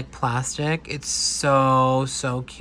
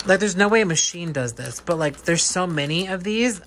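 amazed disbelief; 4 semitones higher than usual. Real, not acted. Amazed at doll's hair.

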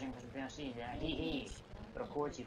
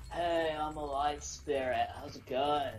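light spirit voice; 3 semitones higher, 5 dB louder, slower than usual. Retold or imitated. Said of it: "I did the voice of one of them".

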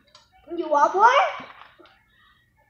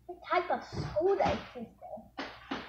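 quiet mumble; 10 dB quieter than usual. Real, not acted. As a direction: murmur it half to yourself. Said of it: "Habla alto".

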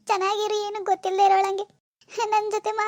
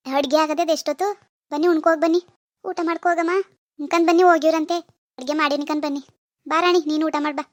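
lower, louder pressing invitation; loud insisting; 4 semitones lower, 4 dB louder than usual. Acted. Mother-in-law urging the guest to stay for lunch, loud. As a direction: call them to eat, insisting.

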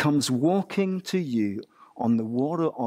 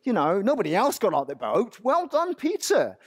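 imagined objection; 4 semitones higher, faster than usual. Pretend. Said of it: "We might think".

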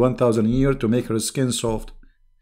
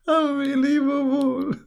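laughing disbelief; slower than usual. Real, not acted.

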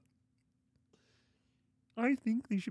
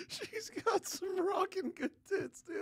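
high, slow mock Kermit voice; Jordan Peterson; 11 semitones higher, slower than usual. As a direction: copy the Kermit-like voice, drawn out. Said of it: "he's like a Canadian Kermit".

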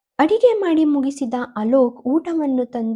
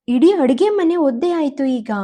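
said loudly; 4 semitones higher, 4 dB louder than usual. Acted. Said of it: "Alok ಜೋರಾಗಿ ಹೇಳಿದ".

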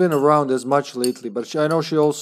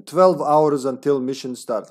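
Serbian accent. Shown as a demonstration. Gamer showing that theirs is less interesting, Serbian accent. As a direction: plainly read Serbian accent. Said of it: "read as it's written".

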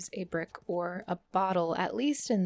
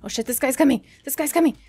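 alarmed; 5 semitones higher, 11 dB louder, faster than usual. Real, not acted. Enemy approaching in the game.

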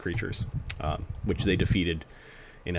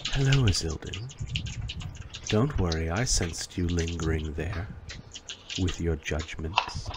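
ominous statue voice; 4 dB quieter than usual. Acted. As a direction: speak as a knowing stone oracle.

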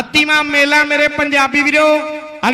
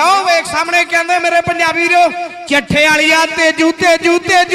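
excited calling out; 4 semitones higher than usual. Acted. Commentator calling raider's name.

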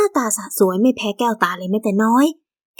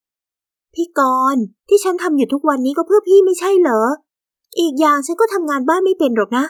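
put-on argumentative young wife; 5 semitones higher than usual. Wife argues back with husband.

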